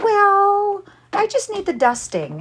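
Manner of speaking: the client answering lightly; client's voice. Retold or imitated. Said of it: "she's like".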